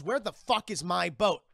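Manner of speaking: loud, slow retold demand; pissed off. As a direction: imitate her angrily demanding an answer. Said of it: "She's just fucking pissed".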